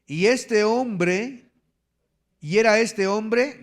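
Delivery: slow, rising stress on "este hombre"; emphatic Bible reading. Shown as a demonstration. Preacher reading Job to the congregation, slow and emphatic. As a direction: dwell on "este hombre" to make them note it.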